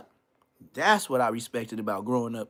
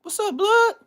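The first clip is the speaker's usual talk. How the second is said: loud greeting; 10 dB louder than usual. Retold or imitated. Greeting voiced in retold scene.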